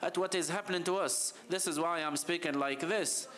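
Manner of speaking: real, impassioned urgency with mild anger; passionate and angry. Real, not acted. Speaker explaining anger at what is happening to us, passionate. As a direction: speak with earnest, worked-up enthusiasm. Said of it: "I'm so passionate and angry".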